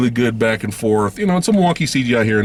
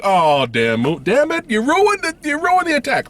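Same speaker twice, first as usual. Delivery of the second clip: exasperated outburst. Retold or imitated. Reacting to the stab scene, high exasperated groan. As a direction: groan it like the scene got spoiled. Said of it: "I was just like".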